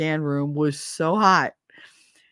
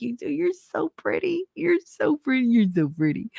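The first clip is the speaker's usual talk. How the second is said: gushing; 7 semitones higher than usual. Retold or imitated. Patient gushing to the nurse, high and airy. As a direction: gush over her like a dazed fan.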